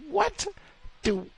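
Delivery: squeaky high "what"; a shocked high-pitched squeak; disbelief. Real, not acted. Reacting to the guard's news, shrill with disbelief.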